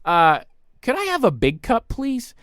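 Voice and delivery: sweetly polite, rising up on please; overly polite ask; polite request. Retold or imitated. Customer asking the waiter sweetly for a big cup. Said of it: "will say to them at these restaurants".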